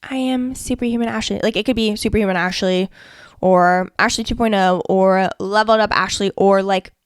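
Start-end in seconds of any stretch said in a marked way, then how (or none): 0.0-1.4 half-hearted. Shown as a demonstration. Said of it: "you have to say it with conviction".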